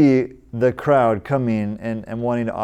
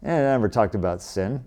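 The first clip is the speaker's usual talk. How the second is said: mock grumbling; faster than usual. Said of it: "grumbling and complaining".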